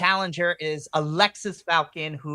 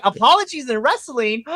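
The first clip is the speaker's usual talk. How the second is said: mock shock; 9 semitones higher, 6 dB louder than usual. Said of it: "I was like".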